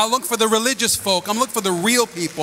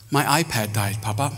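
put-on sad little girl; 8 semitones lower than usual. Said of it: "she goes".

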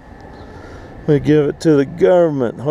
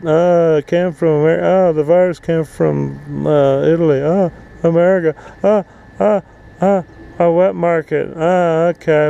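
mocking excuses; 4 semitones higher than usual. Mocking China's shifting excuses.

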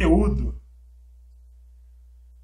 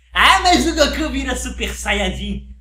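slow, higher whiny objection; whiny objector voice; 4 semitones higher, 6 dB louder, slower than usual. Pretend. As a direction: mimic a stubborn fan. Fã insiste. (voz de fã chorão)

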